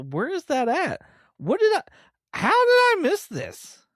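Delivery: genuinely floored that he missed it; real disbelief. Real, not acted. Realizes he missed a plot point.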